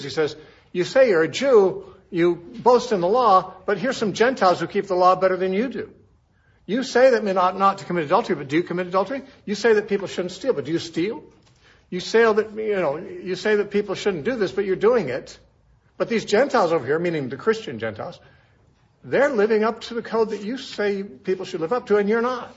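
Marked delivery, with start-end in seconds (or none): 0.7-17.0 rebuking. Retold or imitated. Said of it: "Paul's, uh, uh, rebuking Jews". 19.0-22.5 rebuking. Retold or imitated. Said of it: "Paul's, uh, uh, rebuking Jews".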